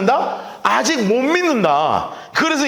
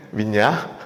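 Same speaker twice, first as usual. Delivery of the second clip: gentle smirk; 11 semitones lower, 3 dB quieter, much slower than usual. Retold or imitated. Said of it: "그러니까 예수님이".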